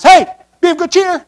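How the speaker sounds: mock loudmouth preacher. Pastor mocking Paul on the storm-tossed ship, high and cheery. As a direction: play the annoying cheerful preacher on deck. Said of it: "this loudmouth preacher gets up and says".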